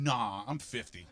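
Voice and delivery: low, slow dismissive nah; lazy excuse. Retold or imitated. Fifty-year-old dodging moving day, low and slow. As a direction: drag out the excuse like it's a perfect alibi. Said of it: "come to me and go".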